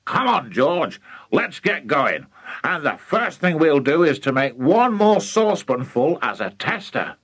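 mildly excited, eager father; rally him with some eagerness; a touch of urgent enthusiasm; excited urging. Acted. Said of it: "Mister Cranky was too excited".

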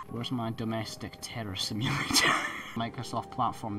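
unvoiced aside; whisper. Real, not acted. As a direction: breathe it to yourself. Whispered jokes.

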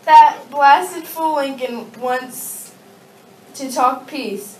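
angry. Acted. Leader rants about Lincoln.

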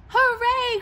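loud, high joyful cheer; a cow's delighted hooray; cheering cry. A narrator's reading. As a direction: shout it to the skies. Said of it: "cried the cow as they flew".

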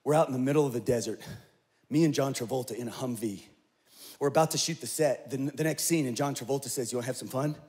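a touch of a relaxed Howie; lightly voiced Howie recounting the desert shoot; Howie telling the story. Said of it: "He's like".

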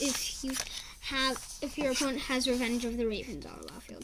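quick whispered aside; fast whispered rules explanation. Real, not acted. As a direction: whisper it fast under your breath. Kid whispers card rule.

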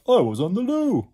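high, very loud creature voice; Slime calling out. Acted. Slime explains the delay, calling out. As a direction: sing out the excuse loudly. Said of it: "Slime called out".

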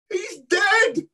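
high-pitched mock shout of alarm. A bystander shouting to the crowd, high-pitched mock alarm. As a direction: call out in sudden fright, lightly acted. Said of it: "someone shouted".

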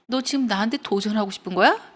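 mild mock-angry challenge, rising at the end. Goddess challenges the boastful weaver, mildly angry. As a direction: confront them in a half-hearted mock yell. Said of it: "라고 그녀가 yelled".

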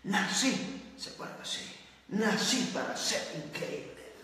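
soft mocking voice with a laugh; soft, laughing parody of someone sure they were born great. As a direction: mimic a smug dreamer, quietly laughing. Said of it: "Muchos dicen".

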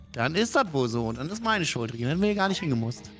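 ordinary delivery

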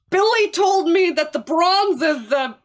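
slow, loud ghoul voice, shouted; hammed-up ghoul growl, drawn out; fake ghoul voice. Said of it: "doing a fake ghoul voice".

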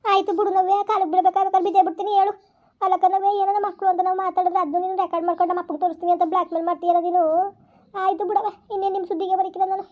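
resigned stepmother. Acted. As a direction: sound wounded and defeated, offering to fall at her feet.

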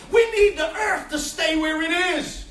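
preaching at full force. Acted. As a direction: punch each "we need" line. Preaching, shouted points.

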